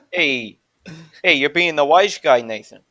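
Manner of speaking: mock New Jersey tough-guy accent. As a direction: confront him like a stereotype Jersey wise guy. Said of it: "a little more Jersey from that".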